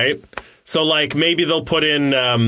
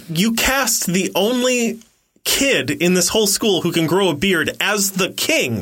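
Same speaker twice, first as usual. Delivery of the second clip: indignant retold protest. Retelling indignant protest to director.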